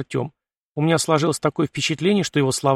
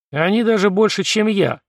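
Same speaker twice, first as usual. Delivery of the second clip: higher-pitched, cocky relish; mildly menacing grin in the voice; predatory smirk; 7 semitones higher, 4 dB louder than usual. A narrator's reading. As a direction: answer with a touch of predatory glee. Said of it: "хищно усмехнулся Артём".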